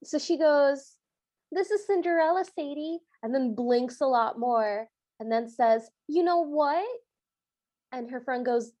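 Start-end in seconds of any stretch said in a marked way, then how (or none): 1.5-3.0 high mock Brooklyn cartoon voice; high, hammy Brooklyn phone voice; over-the-top Brooklyn accent. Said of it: "talking in a very over-the-top Brooklyn accent". 6.1-6.9 higher, rising Brooklyn cartoon question; mock Brooklyn phone voice; over-the-top Brooklyn accent. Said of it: "talking in a very over-the-top Brooklyn accent".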